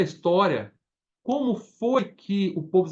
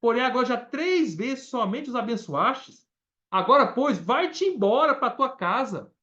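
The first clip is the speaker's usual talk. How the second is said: angry king reading; 5 semitones higher than usual. Retold or imitated. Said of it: "Ficou bravo, falou assim".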